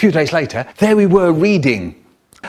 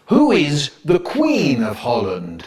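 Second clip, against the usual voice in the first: slow, drawn-out street proclamation; public notice. Acted. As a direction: read it out slowly as a public notice. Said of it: "put notices all round the street saying".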